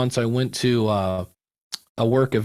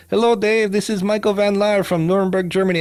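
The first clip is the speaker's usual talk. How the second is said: imitating the German listener; 7 semitones higher than usual. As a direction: replay the caller's greeting, pitched up and eager. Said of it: "I hit play and I hear".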